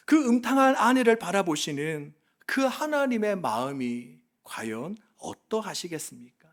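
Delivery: ordinary talk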